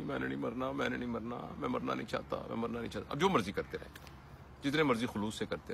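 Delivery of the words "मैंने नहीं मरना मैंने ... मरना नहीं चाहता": softer, monotonous mantra imitation; mock rosary-like repetition. Speaker imitating someone endlessly refusing death, mock rosary-like repetition. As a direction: repeat it like counting prayer beads. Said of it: "रोज़ाना तस्बीहां करते रहें इस बात की".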